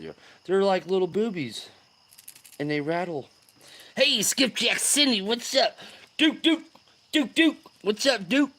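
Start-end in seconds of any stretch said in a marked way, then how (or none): 4.0-8.5 high-pitched shout-out to viewers; excited greeting. Real, not acted. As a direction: hail each newcomer with rising excitement. Hailing viewers joining the stream.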